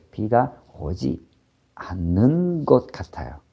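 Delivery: quick, tentative hedge on 것 같아요; a humble, tentative Korean sentence; softened, humble guess. Shown as a demonstration. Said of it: "You say".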